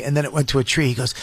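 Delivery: ordinary delivery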